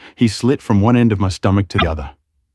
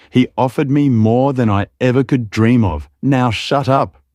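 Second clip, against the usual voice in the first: screamed; 5 semitones higher than usual. Acted. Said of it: "he screamed".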